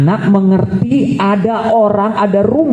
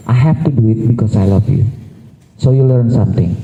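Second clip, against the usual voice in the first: gentle parent explanation; 6 semitones lower than usual. Shown as a demonstration. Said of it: "Nah, disclaimer kan?".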